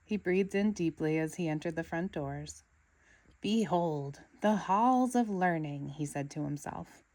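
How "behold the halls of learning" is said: slow, grand and reverent; awed. Acted. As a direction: announce it like a holy place. SpongeBob awed at school.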